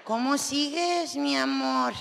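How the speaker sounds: slow mock-tender question; sarcastic mi amor to the husband. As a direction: pretend sweetness, barbed underneath. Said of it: "sarcásticamente".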